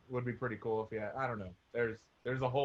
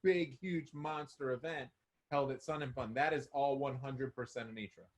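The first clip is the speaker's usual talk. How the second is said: muffled voice, far from the mic; slower than usual. Real, not acted. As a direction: sounds like through a wall. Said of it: "you sound muffled".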